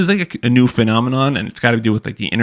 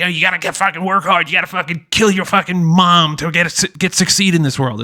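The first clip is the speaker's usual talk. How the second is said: much higher mock voice of a ranting hustle guru; 7 semitones higher than usual. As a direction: ham up the guru's over-the-top grind talk. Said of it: "He's like".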